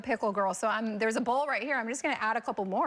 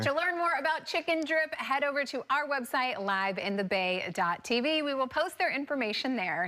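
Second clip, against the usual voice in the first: upbeat TV announcer read; a bright broadcast sign-off; TV host outro. Acted. Host reads show outro.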